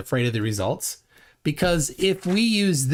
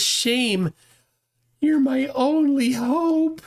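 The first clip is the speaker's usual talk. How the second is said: much higher and slow, a hammed-up cry for help; mock desperate plea; 10 semitones higher, much slower than usual. Chat comment read aloud as a hammed-up plea for rescue. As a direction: plead like your last hope. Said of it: "it says".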